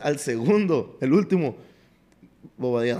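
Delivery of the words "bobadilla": ordinary delivery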